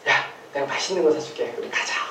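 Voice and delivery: a soft, coaxing stranger's voice, lightly voiced; luring stranger. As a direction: sweet-talk the child away, quietly. (아이를 꾀는 낯선 아저씨처럼 부드럽게 달래듯)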